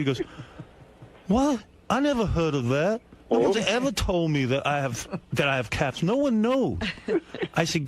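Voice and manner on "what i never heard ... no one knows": a hint of Gary, offended and defensive; Gary impression. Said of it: "an impression of a great moment in Gary history".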